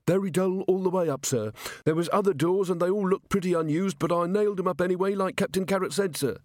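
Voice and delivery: high, quick eager dwarf constable; gruff gravelly dwarf voice. Acted. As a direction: rattle off the report like a keen dwarf. Dwarf constable reports to Vimes.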